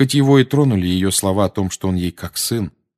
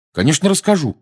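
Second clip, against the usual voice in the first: promise; 9 semitones higher, 5 dB louder than usual. Acted. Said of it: "пообещал Гарри".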